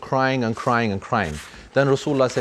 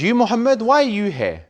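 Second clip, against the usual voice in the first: startled exclamation; 9 semitones higher than usual. Retold or imitated. Enemy lady surprised by Prophet.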